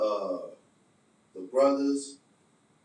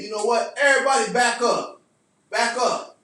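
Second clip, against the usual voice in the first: retold command; 3 semitones higher, 6 dB louder than usual. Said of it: "And I said".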